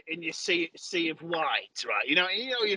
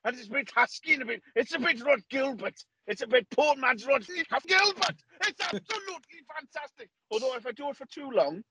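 put-on an excited, higher Welsh accent; a hammy Welsh accent, half-joking; 10 semitones higher than usual. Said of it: "If I do a voice like this, a really exciting voice in a Welsh accent".

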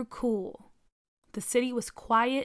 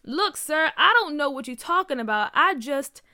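defiant; 5 semitones higher, 6 dB louder than usual. A narrator's reading. Junior denying louder.

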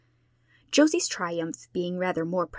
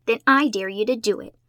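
defiantly; 3 semitones higher, 6 dB louder than usual. A narrator's reading. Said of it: "said Josie defiantly".

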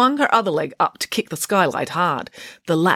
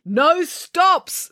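high, sharp refusal; irritable order, pitched up; snapped; 13 semitones higher than usual. A narrator's reading. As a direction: snap it at a troublesome passenger. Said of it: "snapped Mister Lang".

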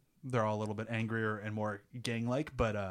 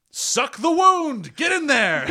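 high, slow screamed order; screaming quote; 13 semitones higher, 11 dB louder, much slower than usual. Retold or imitated. Kid screaming at his friends to suck the wound. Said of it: "The way he screams".

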